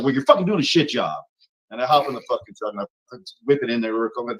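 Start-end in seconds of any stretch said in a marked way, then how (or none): 0.0-1.2 louder, higher retold telling-off; mildly heated mock scolding. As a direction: act out chewing someone out. Acted quarrel over backing trailer.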